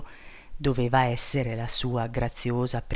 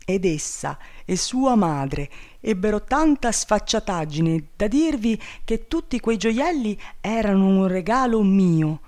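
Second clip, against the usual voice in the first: higher, indignant protest; outraged king; 4 semitones higher than usual. Acted. Wronged king protests his innocence to princess, outraged. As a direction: denounce the liars with heat.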